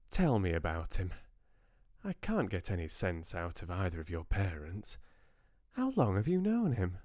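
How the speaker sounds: an elegant Southern lady catching up with her granddaughters; lightly voiced Southern grandmother. Georgia questions Bella.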